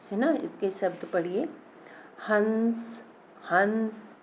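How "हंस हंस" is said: हंस with the vowel hummed through the nose; nasal sound. Shown as a demonstration. Teacher demonstrates the nasal dot, हंस through the nose. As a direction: let हंस ring in the nose. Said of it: "नाक से निकल रही है ना आवाज़".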